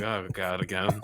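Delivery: low, soft, weary oh God; exasperated groan. Retold or imitated. Son groaning at dad's friend suggestion, softly exasperated. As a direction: sigh it out, fed up with dad's setups. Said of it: "I'm like".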